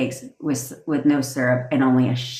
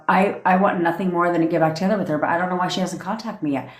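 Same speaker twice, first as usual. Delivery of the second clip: with tonality; faster than usual. Shown as a demonstration. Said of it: "You say it in, with tonality".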